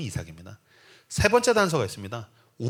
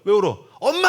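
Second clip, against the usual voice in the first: louder, rising alarm into a cry for mom; mock panicked teen; 4 semitones higher, 7 dB louder than usual. Teen son seeing his father cry, yelping for mom as he flees. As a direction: yelp for mom and bolt.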